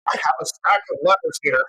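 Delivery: smooth, authoritative radio host; sexy voice. Pretend.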